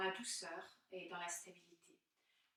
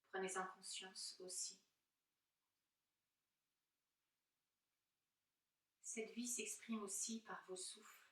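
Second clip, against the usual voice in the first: guided meditation; 3 dB louder than usual. Acted. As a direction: gently guide them inward, leaving space between phrases.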